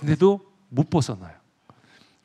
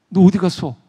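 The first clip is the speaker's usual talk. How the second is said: calling out; 5 semitones higher, 7 dB louder than usual. Acted. Reflection vanished, calling out.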